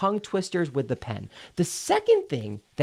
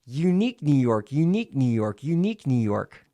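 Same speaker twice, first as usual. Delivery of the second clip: connected syllables, repeated in a run; legato with pen in teeth; 4 dB louder than usual. Shown as a demonstration. Coach demonstrating three repetitions, continuous legato. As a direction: link it all up round a pen. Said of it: "staccato and legato".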